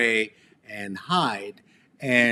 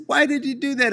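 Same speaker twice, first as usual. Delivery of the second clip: higher, pleading mom voice; mother asking; 14 semitones higher, faster than usual. Retold or imitated. Mother questioning her son, in a higher pleading voice. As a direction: voice the worried mother. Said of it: "And she said".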